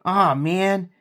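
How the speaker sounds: mock the useless onlookers, pitch shooting up; mocking bystanders. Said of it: "everybody will stand around going".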